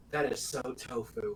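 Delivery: laughing while imitating.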